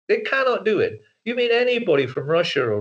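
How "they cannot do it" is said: "cannot" spelled out in full and stressed, in an Eastern European accent. Shown as a demonstration. Insisting they cannot lose the accent, with a stressed "cannot". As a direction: give "cannot" both syllables with a hard Eastern European edge. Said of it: "if you speak like this".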